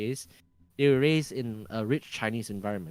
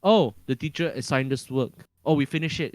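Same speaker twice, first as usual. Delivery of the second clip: careless student; 3 semitones higher, 5 dB louder than usual. Retold or imitated. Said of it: "how students brush off English".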